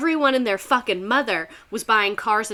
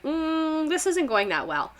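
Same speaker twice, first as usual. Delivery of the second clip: uneasy mock businesses; 8 semitones higher, slower than usual. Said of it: "kinda be like".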